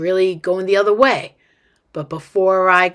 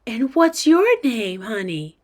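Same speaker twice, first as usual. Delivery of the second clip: doting mom; 2 semitones higher than usual. Acted. Mom asks girl her name, doting voice. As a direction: ask like a charmed mother.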